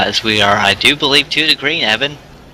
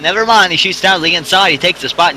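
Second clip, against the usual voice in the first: excited; 6 semitones higher than usual. Real, not acted. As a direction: catch the surprise pass. Sudden pass on the inside.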